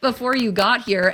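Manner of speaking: high-pitched flustered apology, lightly acted; mortified protest. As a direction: play an innocent seller pleading in dismay, half laughing. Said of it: "I would feel terrible".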